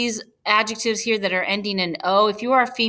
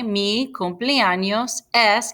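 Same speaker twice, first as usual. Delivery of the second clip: slow model phrase; slower than usual. Shown as a demonstration. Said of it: "you could answer".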